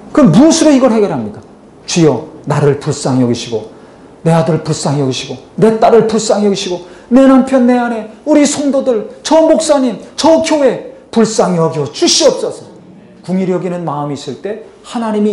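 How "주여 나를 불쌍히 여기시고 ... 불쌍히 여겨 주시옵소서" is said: building plea for mercy; pleading prayer. Shown as a demonstration. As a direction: pray it aloud, climbing toward the pastor and the church. Models a prayer to God.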